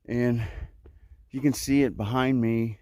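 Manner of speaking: breathless, panting between phrases; winded from a steep climb; out of breath. Real, not acted. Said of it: "you can tell I'm out of breath".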